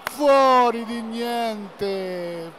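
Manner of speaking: slow, stretched near-miss cry; drawn-out groan. Real, not acted. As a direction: stretch it out in disbelief. Shot just misses goal. (delusione allungata)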